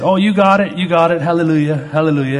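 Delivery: high, loud hallelujah of an excited preacher. Retold or imitated. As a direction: proclaim it like a thrilled revival preacher. Preacher declares he got it.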